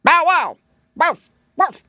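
loud, high barks ending in a growl; explosive woofs, then a rolled growl; barking dog. A narrator's reading. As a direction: bark it out like a bad dog. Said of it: "barked the dog".

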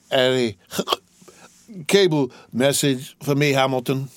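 put-on drunk. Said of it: "I'm drunk".

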